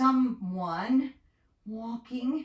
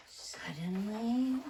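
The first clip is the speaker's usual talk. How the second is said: slow dramatic suddenly; 7 dB quieter, slower than usual. Shown as a demonstration.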